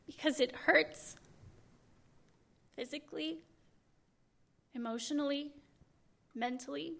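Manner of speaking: very soft, halting with long pauses; hushed, pained. Real, not acted. Activist telling the audience how it hurts, hushed and pained. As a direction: drop right down, one word at a time. Confessing her pain to audience.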